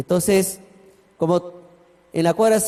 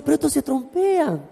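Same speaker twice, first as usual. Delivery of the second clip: 1 mocking neighbour; 7 semitones higher than usual.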